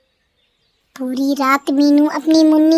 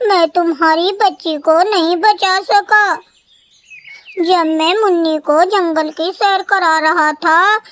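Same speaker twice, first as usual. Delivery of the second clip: fake crying; 4 semitones higher than usual. Crow Kaliya fakes grief to the mother, mock tearful. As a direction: put on false grief for forgiveness. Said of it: "जोर-जोर से रोने लगा".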